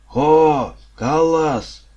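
loud, high, drawn-out hail. A narrator's reading. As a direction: call out to summon someone far off. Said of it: "Скайлд возвысил голос". (громкий протяжный окрик)

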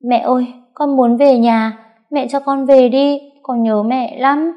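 put-on high, loud tearful pleading child; choked-up crying. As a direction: beg to go home through tears. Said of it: "giọng nghẹn đi". (giọng nghẹn ngào, mếu máo van xin)

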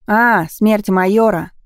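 put-on slow, loud boy's voice, drawn-out "А"; boy shouting slowly over an engine. Boy names the place.

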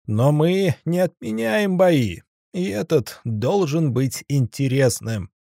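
high, drawn-out arena announcer bellow; booming ring announcer. Acted. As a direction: call it out to the whole arena. Ringmaster resumes announcing.

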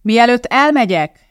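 high, loud and slow over the crowd; calling out. Acted. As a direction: call out above the noise. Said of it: "kiabálta Elizabeth".

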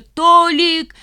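high, loud calling out; shout. A narrator's reading. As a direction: call after the son. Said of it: "закричала тётя Клава".

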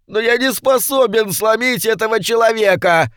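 very high, wailing demon complaint; high despairing wail; moaning imp. A narrator's reading. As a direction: moan it out in despair, pitched high. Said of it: "простонал Йетеринг".

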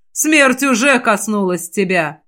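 sneering. Acted. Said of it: "Восьмая печать усмехнулась".

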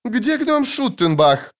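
high, slow call; drawn-out high-pitched shout; crying out. A narrator's reading. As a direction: call across the hall. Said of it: "крикнул кто-то из поэтов".

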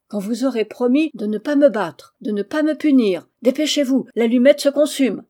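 loud, insistent demands, rising in pitch; forceful bargaining; urgent ultimatum. A narrator's reading. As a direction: press for a promise, time running out. Boy presses terms, match burning.

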